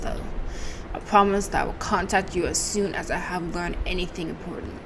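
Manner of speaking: put-on rough German accent sliding toward Russian; attempted German accent. Two doctors discussing a missing patient, attempted German accent. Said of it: "I was almost Russian".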